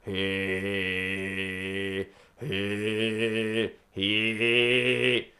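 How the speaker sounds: low, buzzing "he" in chest voice; low "he" in chest voice, twanged. Shown as a demonstration. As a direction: buzz "he" down in the chest. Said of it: "this is basically he".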